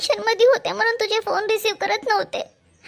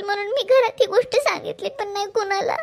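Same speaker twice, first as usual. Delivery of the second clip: crying. Acted. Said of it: "Janhvi रडू नकोस ना आधी".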